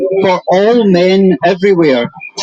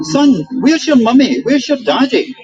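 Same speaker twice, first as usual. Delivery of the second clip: put-on raised, higher calling out to a lost child; retold shouting; 6 semitones higher than usual. Man at a station shouting for a lost boy's parents, mock shout. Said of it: "And I started shouting".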